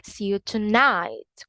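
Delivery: tonight with an I sound, British; British English. Shown as a demonstration. Teacher explaining the vowel, British English. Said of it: "In British English".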